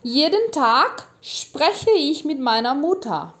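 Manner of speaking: slow, clear, for repeating; measured teacher read-aloud; slow model reading. Shown as a demonstration. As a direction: read it slowly so learners can echo. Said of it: "Eu vou ler ele de novo pra você poder repetir".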